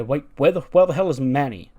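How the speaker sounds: baffled demand. Acted. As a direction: ask it like someone's gone missing. Baffled group looking for Manny.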